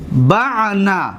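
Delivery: بعنا stretched very slowly with a falling end; بعنا said slowly, syllable by syllable; slow demo. Shown as a demonstration. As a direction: draw out بعنا for students to copy. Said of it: "ببینید،".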